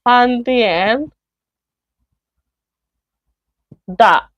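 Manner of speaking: each chunk set apart by long pauses; slow model question. Shown as a demonstration. Teacher modelling example three, slow and chunked. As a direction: lay the question out slowly word by word. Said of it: "The third one".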